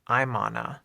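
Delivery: "I'm on a" run together as one word; linked words. Shown as a demonstration. English teacher demonstrates linking for learners, linked as one word. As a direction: link "I'm on a" with no gaps. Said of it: "all linked together and sounds like one word".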